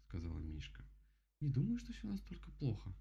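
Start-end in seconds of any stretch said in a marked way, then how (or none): 1.4-2.9 higher bear voice, mildly soothing. Acted. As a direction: play it down calmly. Bear calms the rabbit.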